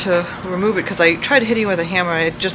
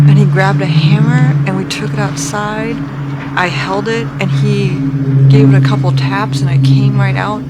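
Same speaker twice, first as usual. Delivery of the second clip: excited retelling; 8 dB louder than usual. Real, not acted.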